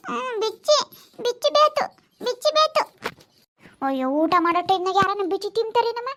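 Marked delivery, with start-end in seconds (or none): 0.1-2.8 whiny demand. Real, not acted. Toddler demands biscuit.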